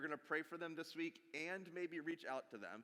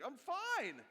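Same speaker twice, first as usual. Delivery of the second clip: plain; 8 semitones higher than usual. Shown as a demonstration. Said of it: "Whenever your voice goes up when you say".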